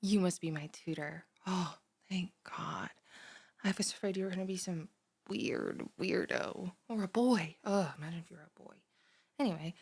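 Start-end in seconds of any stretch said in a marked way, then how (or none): 1.5-2.9 relieved whisper. Acted. 8.0-8.7 hushed, fast gossiping whisper; whispered aside. Acted. Girl whispering to her new tutor about boys.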